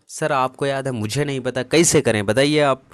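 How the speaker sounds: imitating a student. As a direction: play the lost student begging to be shown. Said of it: "teacher voices a student asking".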